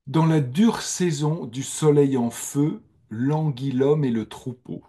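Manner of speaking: slow, measured recital of a sonnet; poem reading. Shown as a demonstration. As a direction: read the verse slowly, savouring each word. Reads Vivaldi's sonnet aloud.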